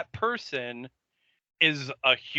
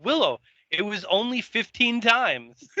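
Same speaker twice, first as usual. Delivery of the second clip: mock casual Oz; 8 semitones higher, 3 dB louder than usual. Co-host topping the joke as Oz, higher and offhand. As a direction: shrug it off, milking the joke. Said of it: "And he was like".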